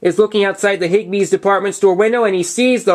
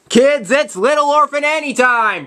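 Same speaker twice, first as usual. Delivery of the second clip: radio announcer; 5 semitones higher than usual. Retold or imitated. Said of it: "narrated and said".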